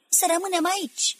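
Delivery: high, forceful command; yelling. A narrator's reading. Manuel orders the crowd to stay, yelling. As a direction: cry it out to everyone. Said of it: "urlă Manuel".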